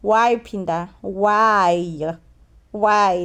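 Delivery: rising incredulous hayi and why; exasperated why. Retold or imitated. Narrator scolding Phinda in mock exasperation. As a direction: plead with mock despair.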